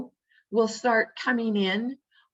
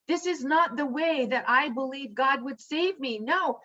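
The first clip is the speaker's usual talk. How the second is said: adamant refusal; 3 semitones higher than usual. Retold or imitated. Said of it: "this man is just so adamant".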